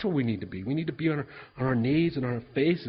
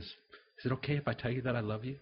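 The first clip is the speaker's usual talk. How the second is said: soft, careful request; tender retelling; 6 dB quieter than usual. Retold or imitated. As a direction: retell a shy confession gently and softly. Tender confession in retold story.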